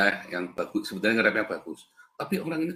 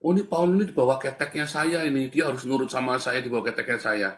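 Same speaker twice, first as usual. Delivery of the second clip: slightly raised mock-bossy quote; imitated boastful claim; 4 semitones higher than usual. Someone claims the preacher is under them, lightly mocked bossiness. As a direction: lightly act out someone claiming control, pitch up at first. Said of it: "dikatain ada satu orang".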